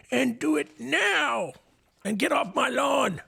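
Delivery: put-on high old man, slow then shouting; old man yelling. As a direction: bark it like a grumpy old man. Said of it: "old person voice".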